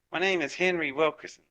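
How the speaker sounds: put-on German accent. German scientist introducing himself to the narrator, in a German accent. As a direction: lightly mimic a German speaker. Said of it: "with this German accent".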